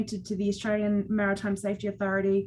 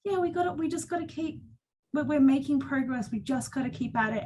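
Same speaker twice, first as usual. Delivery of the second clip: encouraging; 5 semitones higher than usual. Retold or imitated. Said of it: "so gorgeous and lovely".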